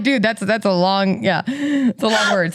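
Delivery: put-on slow LA-girl drawl with stretched "long"; Valley Girl drag. Shown as a demonstration. Playing along about long words, slow Valley Girl drawl. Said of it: "it's a little bit longer".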